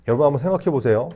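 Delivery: preacher stirring up the congregation with a quick, pressing appeal; emphatic appeal. Shown as a demonstration. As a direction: urge the congregation with rising energy. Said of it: "repeated appeal to congregation".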